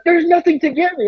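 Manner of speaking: very high mock frustration; acted incredulous protest; exasperated retold denial. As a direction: imitate a fed-up friend reasoning with someone.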